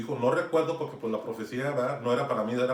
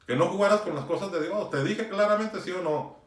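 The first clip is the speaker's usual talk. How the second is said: firm, slightly raised retold rebuke; stern exhortation; 3 semitones higher than usual. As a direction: retell it as a firm admonishment. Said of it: "Sí lo exhorté". (exhortación firme)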